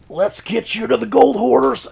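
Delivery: put-on high, loud Russian accent; a hammed-up Russian accent. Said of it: "my Russian accent".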